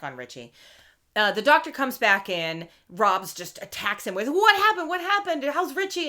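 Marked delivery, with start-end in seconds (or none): 4.3-6.1 high, anxious rapid questions; frantic worried father; imitating a panicked dad. Retold Rob panicking.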